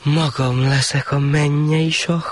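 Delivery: high, slow greedy thought; the shah plotting to become heavenly ruler; slow high self-satisfied musing; scheming shah. Acted.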